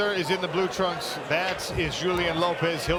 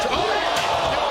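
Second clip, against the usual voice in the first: surprised; 7 semitones higher, 4 dB louder than usual. Real, not acted. Big shot lands live.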